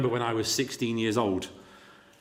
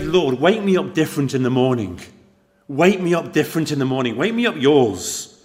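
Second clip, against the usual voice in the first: earnest prayer; 3 semitones higher, 6 dB louder than usual. Retold or imitated. A teenager's pleading prayer retold.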